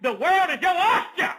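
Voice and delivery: mocking what Facebook seems to say; mock temptation. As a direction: sneer at the enticing message. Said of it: "these things that says".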